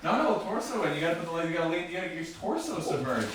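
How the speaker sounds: high, loud cheering on; excited coaching. Real, not acted. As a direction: hype up a friend in an ice bath. Coaching friend through ice bath.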